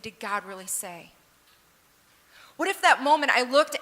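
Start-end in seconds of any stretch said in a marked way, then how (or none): 0.0-1.1 hushed doubt. Acted. Quoting serpent's doubt.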